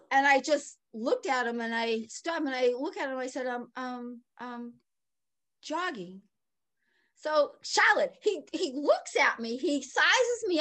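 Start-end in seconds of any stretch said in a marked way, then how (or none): 3.5-6.2 hesitant, much softer, halting ums; timid answer. Retold or imitated. Jogger answering a cop, timid and soft. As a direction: mumble it like you've been caught.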